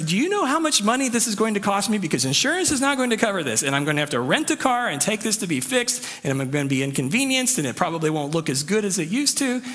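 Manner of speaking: a pretend parent scolding over the car bill; mock angry lecture. Pretend father scolding his toddler over the car, in a mock rant. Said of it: "lecture her and yell at her".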